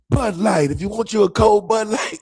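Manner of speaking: mock jingle pitch, lightly sung. Phone playing a beer ad, loud mock commercial. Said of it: "all of a sudden".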